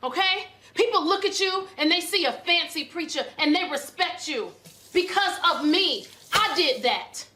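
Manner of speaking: indignant, pressing each point home; angry berating. Acted. Wife scolding her preacher husband over his ingratitude, angry berating. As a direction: lay into him with mounting indignation.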